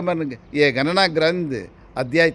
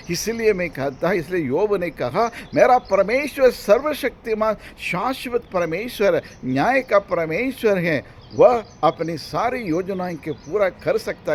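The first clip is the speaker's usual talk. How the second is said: raised, emphatic proclamation; fervent preaching; 8 semitones higher, 5 dB louder than usual. Acted. Preacher quoting Job on almighty God to believers, fervent proclamation. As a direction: declare it to the congregation with conviction.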